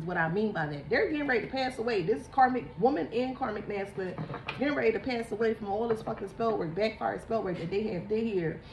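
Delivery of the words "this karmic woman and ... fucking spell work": ordinary delivery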